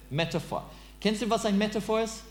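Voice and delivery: "Metaphor" in a German accent, as "metafor". Shown as a demonstration. Teacher showing the English word in a German accent, German-accented. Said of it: "die English Word in ein deutscher Akzent".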